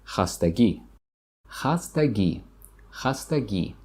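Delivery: Хастагӣ with a long ee at the end; teacher drawing out the last ee of Хастагӣ; long final E. Shown as a demonstration. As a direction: stretch the final vowel of Хастагӣ. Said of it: "Long E at the end".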